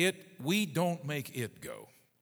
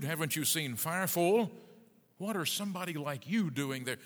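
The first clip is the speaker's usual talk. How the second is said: incredulous, insistent questioning, pitched up; indignant challenge; 3 semitones higher, 4 dB louder than usual. Acted. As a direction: pile up the questions like a rebuke. Acting God challenging runaway Elijah.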